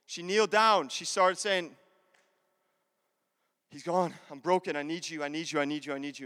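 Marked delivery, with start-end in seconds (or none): 3.7-6.3 understated repeated plea, trailing away; broken pleading. Acted. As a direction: run the pleas together, sinking lower and softer. Acted broken plea to Jesus.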